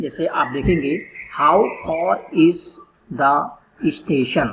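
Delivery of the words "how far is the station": very slow, word by word how far is station; stretched classroom example read; slow read-out question. Shown as a demonstration. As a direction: read it out slowly, spacing each word. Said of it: "ये बच्चा बोल रहा है".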